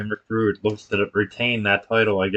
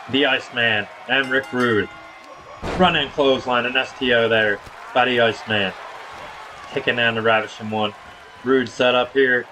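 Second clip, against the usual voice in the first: punchy ringside commentary; wrestling play-by-play; 5 semitones higher than usual. Acted. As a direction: call each wrestling move as it lands. Calls wrestling match play-by-play.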